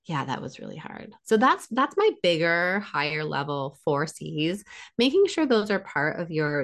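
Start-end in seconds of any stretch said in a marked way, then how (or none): 0.1-1.1 soft validation. Retold or imitated. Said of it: "instead of just saying".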